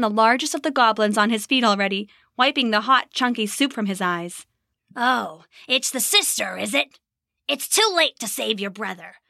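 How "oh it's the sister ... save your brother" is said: snarling goblin. Acted. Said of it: "it snarled".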